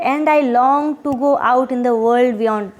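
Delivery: slow, even reading of the verse; a teacher reciting the poem's line before explaining it; poem recitation. Acted. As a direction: read the line slowly, like a recitation.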